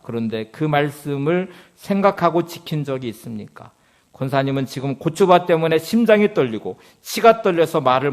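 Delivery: loud, impassioned pastor pressing the elder; a pastor confronts the elder over her pepper field, at full preaching force; fervent preaching rebuke. Acted. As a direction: preach it at her, building to a challenge. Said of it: "책에 있는 내용을 그대로 인용해 볼 거예요".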